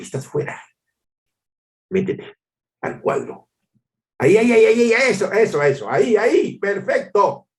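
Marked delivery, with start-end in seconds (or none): 1.9-7.5 mock photographer. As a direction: wave everyone into the frame. Photographer directing a group photo. (fotógrafo entusiasta acomodando a todos)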